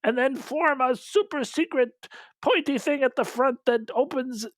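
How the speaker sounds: lightly acted urgent command; mock battle orders. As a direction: call out hammed-up orders to the fleet. Imitates commander giving battle orders.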